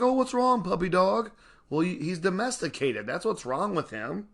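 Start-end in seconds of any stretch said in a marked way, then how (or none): 0.0-1.3 high, sing-song pet talk; baby talk to a dog. Retold or imitated. Owner cooing at a mopey dog, high baby talk. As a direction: coo at the puppy.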